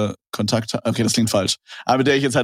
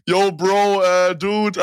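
influencer slang voice; 7 semitones higher, much slower than usual. Retold or imitated. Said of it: "die reden dann so einfach so wie ich".

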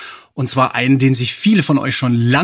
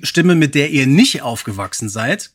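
hammed-up podcast opener; show host intro; 3 semitones higher than usual. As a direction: open the show like a radio host.

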